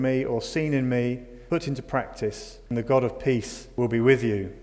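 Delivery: measured, deliberate Bible reading; scripture reading. Acted. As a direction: read it out with spaced, weighted phrases. Reads scripture aloud.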